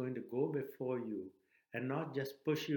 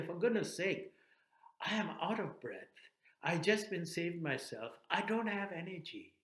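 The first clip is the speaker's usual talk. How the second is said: higher-pitched, mildly exasperated pleading; exasperated protest; 4 semitones higher than usual. Acted. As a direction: protest that you can't possibly go back in. Rescued person protests the request.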